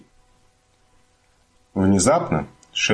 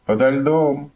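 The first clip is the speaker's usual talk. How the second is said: last word echo; 8 semitones higher, slower than usual. A narrator's reading. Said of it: "эхо повторило".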